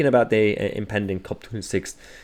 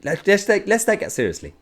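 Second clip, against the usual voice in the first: much higher, mocking sing-song; sarcastic; 9 semitones higher than usual. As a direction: pretend to be deadly serious, dripping sarcasm. Sarcastic mock of the tweet.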